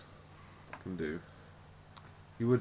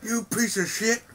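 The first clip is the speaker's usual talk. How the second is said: high, slow mock New Jersey voice; mock Jersey insult; 12 semitones higher, 3 dB louder, slower than usual. Mocking Meryl Streep's accent, slow high Jersey insult. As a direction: drag out a hammed-up Jersey insult. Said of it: "That's my Meryl Streep impression".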